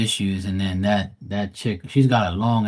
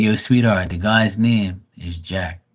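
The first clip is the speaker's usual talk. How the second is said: condescending correction; slower than usual. Retold or imitated. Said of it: "I felt like saying".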